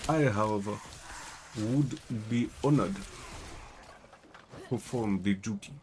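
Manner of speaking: put-on measured, formal African-accented concierge; Charon. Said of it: "I can do an okay version of Charon".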